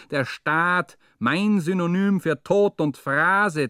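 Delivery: escalating furious tirade on the state; rising rant. Acted. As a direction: build the tirade up, spitting each insult. Mounting tirade against the state.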